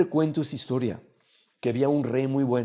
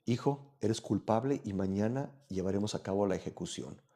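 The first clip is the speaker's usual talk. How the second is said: much softer, sorrowful sentence from the king; sad king; 4 semitones lower, 7 dB quieter than usual. A narrator's reading. The grieving king sentences his own son, softly sad. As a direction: deliver the verdict with a breaking heart, quietly. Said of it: "Y el rey muy triste dijo".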